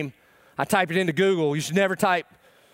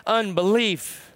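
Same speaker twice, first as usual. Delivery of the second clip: slow earnest plea; 4 semitones higher, much slower than usual. Retold or imitated. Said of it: "the dad's legitimate prayer is".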